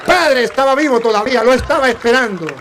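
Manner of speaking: high, loud amazed exclamation; acted astonishment. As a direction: cry out like an astonished witness. Astonished nuns crying out to priest.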